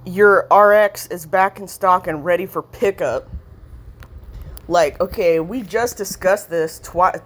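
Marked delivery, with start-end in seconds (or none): 0.0-3.3 slow, louder, sarcastic read of the text alert; scornfully quoting a pharmacy text alert, slow and louder; mock text read. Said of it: "they're trying to trick me and say".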